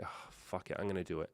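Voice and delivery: under the breath, almost voiceless; a whispered dare to himself; hushed self-talk. Retold or imitated. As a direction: mutter it to yourself to get up the nerve. Retold inner pep talk.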